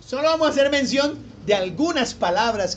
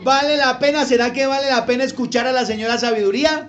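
rousing question; 3 semitones higher, 4 dB louder, faster than usual. Real, not acted. Preacher challenges congregation.

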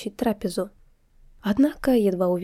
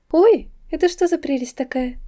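умилённо; 6 semitones higher, 4 dB louder than usual. Acted. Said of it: "умилилась Селестия".

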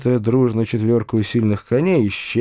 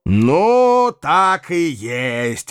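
outraged exclamation; 5 semitones higher, much slower than usual. A narrator's reading. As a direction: blurt out the triumph of being right. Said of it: "вскричал господин Бахчеев".

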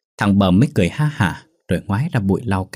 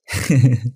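mocking laugh; 4 semitones higher than usual. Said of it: "cười cợt đáp".

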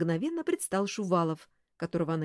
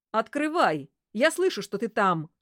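louder sinister demand; 4 semitones higher, 5 dB louder than usual. Acted. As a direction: threaten through the door. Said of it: "сказал тот зловещим голосом".

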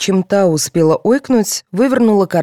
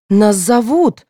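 louder, higher anxious reminder; nervous; 6 semitones higher, 5 dB louder, slower than usual. A narrator's reading. Contestant called to the final, nervous. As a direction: fret that time is short. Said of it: "занервничала девушка".

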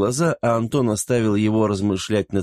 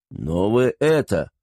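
indignant; slower than usual. Acted. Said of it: "возмущённо произнёс маршал".

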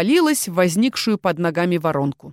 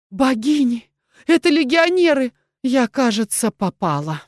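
panicked; 4 semitones higher than usual. Acted. Heroine panics, caught.

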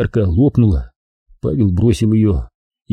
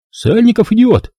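high, louder alarmed call; much higher scared shout; frightened warning; 12 semitones higher, 3 dB louder than usual. A narrator's reading. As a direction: warn them in a panic. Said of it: "испуганно предупредил".

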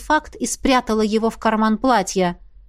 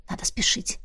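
hushed urgent whisper; whispered thought; 9 dB quieter than usual. A narrator's reading. Heroine urges herself on in a whisper. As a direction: whisper it to yourself.

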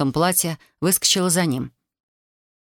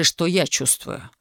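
lightly voiced husband, slow mocking echo; slower than usual. A narrator's reading. Husband mockingly echoes her words.

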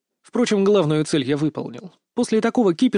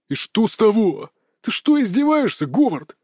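angry bark; 6 semitones higher than usual. A narrator's reading. Boss Kurt barks at servant Howard in fury. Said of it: "гневно рявкнул Курт".

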